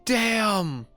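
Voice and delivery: high, astonished exclamation; shocked. Real, not acted. Streamer reacting to a pay claim, shocked. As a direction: pitch jumps up in disbelief.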